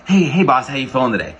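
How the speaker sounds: bright, loud, high-energy hello; energetic greeting. Shown as a demonstration. Sales coach demonstrating a cold call opener, high energy. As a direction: burst onto the call with energy. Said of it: "you go into it with so much energy".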